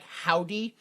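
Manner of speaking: "howdy" said clearly as how-dee. Retold or imitated. Comedian showing the mispronounced band name, clear "howdy". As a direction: pronounce "howdy" slowly with an ow. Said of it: "pronounced it so much clearly like".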